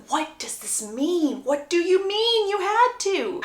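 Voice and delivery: slow start rising into baffled question; lightly acted stunned puzzlement; shocked disbelief. Jilted man puzzling over her words, stunned disbelief. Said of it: "Gregory's in shock right now".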